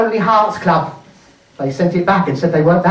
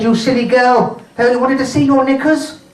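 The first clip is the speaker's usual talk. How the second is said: higher-pitched mock telling-off; scolding mother; 4 semitones higher than usual. Mum putting her little girl right, lightly scolding. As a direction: chide a silly child.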